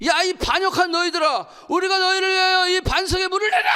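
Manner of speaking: acted furious Moses, high and building to a shout; angry outburst. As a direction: berate the rebels, pitch climbing. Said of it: "모세가 열받아가지고 이렇게 얘기했어요". (열받아 쏘아붙이는 고함)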